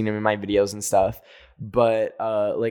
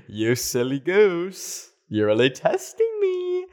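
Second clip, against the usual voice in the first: mock exasperation; 6 semitones higher, slower than usual. Scolding the dog after running inside.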